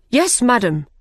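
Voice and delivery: a lightly shouted soldiers' answer; shouted reply. Acted. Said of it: "shouted the King's men".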